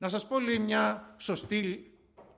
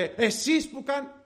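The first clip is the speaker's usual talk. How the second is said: raised, drawn-out mock complaint; dissatisfied customer; 5 semitones higher, slower than usual. Unhappy customer starts complaining to shop worker, mildly indignant. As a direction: imitate an annoyed customer, higher. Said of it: "όταν ήταν δυσαρεστημένος έλεγε".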